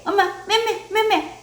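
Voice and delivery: high, sing-song pretend smacking words; baby-talk mock scolding. Adult to child about mom, mock scolding. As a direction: coax a child with playful scolding.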